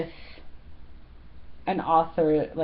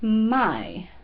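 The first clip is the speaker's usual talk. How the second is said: "My" with a Portuguese accent, falling pitch. Shown as a demonstration. Vlogger showing the word for mom, "My" in Portuguese accent. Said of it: "you have to say it with the accent".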